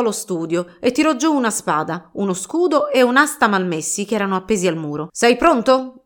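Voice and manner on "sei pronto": eager question. Acted. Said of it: "disse Don Chisciotte".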